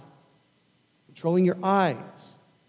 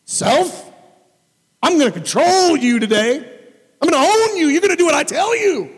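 loud high commanding shout; commanding self; 11 semitones higher, 5 dB louder than usual. Pretend. Preacher bossing his own self, loud commanding shout. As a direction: order yourself around like a drill sergeant. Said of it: "Self-control".

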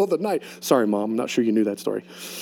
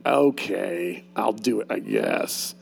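begrudging; 9 semitones lower, 6 dB quieter, much slower than usual. Retold or imitated. Pastor voicing a grudging God, low and soft. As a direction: lower and much softer reluctant mumble. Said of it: "begrudgingly willing".

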